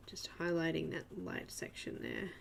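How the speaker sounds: soft unvoiced whisper. Real, not acted. Streamer narrates her drawing to viewers, whispered. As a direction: murmur it like ASMR.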